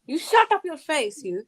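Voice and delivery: Southern American telling-off, slowed down; Southern American accent. Pretend. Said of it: "the Southern American accent".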